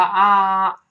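long, high, loud "啊"; isolated vowel. Shown as a demonstration. Teacher breaks down flower for students, sustained loud "啊". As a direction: hold an open "啊" at full voice. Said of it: "先发啊".

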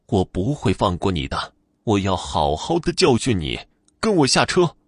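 threaten, then order sharply at the end; vengeful old woman, rising in force; menacing threat. Acted.

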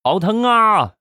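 high wail of labour pain; hammed-up, high-pitched "it hurts" cry; mock crying. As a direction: imitate a woman wailing in pain. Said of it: "一直在那儿哭啊".

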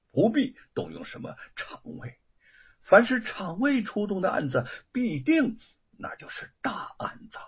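put-on old man gravely warning the family, soft and hushed; worried and grieving. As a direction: half-whisper the bad news. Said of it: "沈伟愁苦地说".

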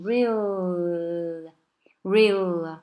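long real held on the dark L; stretched real, tongue tip resting on L; really without LY. Shown as a demonstration. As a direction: cut off the ly and linger at the end of real. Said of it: "把这个really后面的ly给它切掉".

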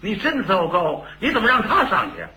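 high, fast indignant yelling; a high, fast, angry complaint to the stage manager. Retold or imitated. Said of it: "跟管事的这个嚷嚷".

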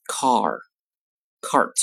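"car" with a long open vowel, "cart" cut shorter by the t; vowel length demo. Shown as a demonstration. Teacher contrasting word-final vowel length, "car" long, "cart" shorter. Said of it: "来听一下它们区别".

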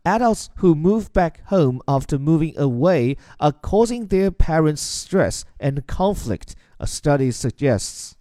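slow, deliberate news-read pace. Shown as a demonstration. Teacher reading the BBC sentence aloud to learners, slow and deliberate. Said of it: "来看下面一段".

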